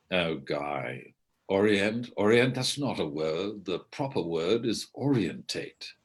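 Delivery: lightly mocking British accent, correcting pedantically; a hint of haughty British English; snobbish British actor. British actor correcting the Canadian director's word, snobbish British accent. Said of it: "of British snobism".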